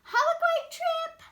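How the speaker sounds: high, loud excited call. Acted. Donut Arnie calls after donuts leaving in boxes. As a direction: wave them off with a shout.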